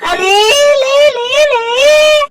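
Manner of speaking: high sing-song coaxing calls; high teasing coo. Acted. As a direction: coax in a high lilting voice. Comic cooing at someone. (ऊँची आवाज़ में चिढ़ाते हुए पुचकारना)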